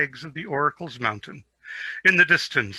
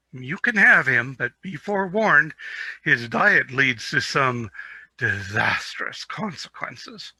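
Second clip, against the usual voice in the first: smirking warning; 3 dB louder than usual. Acted. Varen smirks, warns.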